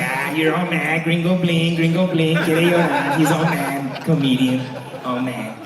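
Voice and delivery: lightly imitated tipsy teasing; a touch of tipsy mockery; tipsy cousin. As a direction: tease like a cousin a few drinks in. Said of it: "She was tipsy".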